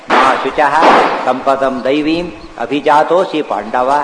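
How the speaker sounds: slow, drawn-out Sanskrit verse; verse recitation. Retold or imitated. Preacher quoting Krishna's answer to Arjuna, slow verse recitation. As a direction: recite it measuredly with long vowels.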